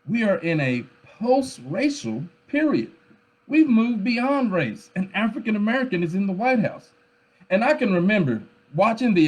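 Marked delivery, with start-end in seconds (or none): 0.0-6.9 higher-pitched imitation of excited people; mock awe, pitched up; worked up. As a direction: mimic people getting carried away by a big moment. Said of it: "getting all worked up like".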